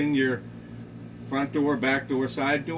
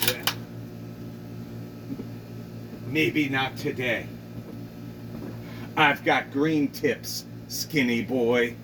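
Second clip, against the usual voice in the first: menacing neighbor; 2 semitones lower, 3 dB quieter than usual. Acted. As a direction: menace him, dragging the last words. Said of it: "she was like".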